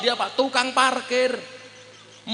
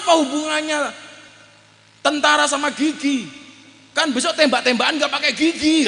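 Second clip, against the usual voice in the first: mock angry friend; 5 semitones higher than usual. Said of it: "Dia marah-marah".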